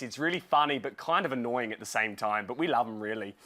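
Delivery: a mock Australian accent, lightly done; a light attempt at an Aussie twang. Shown as a demonstration. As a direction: try out a playful Aussie accent on the host's own opinion. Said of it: "my best attempt at an Australian accent".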